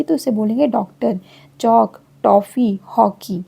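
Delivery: डॉक्टर with the open o of English doctor; teacher modelling English loanwords; open o sound. Shown as a demonstration. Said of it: "ये ऑ का sound देगी".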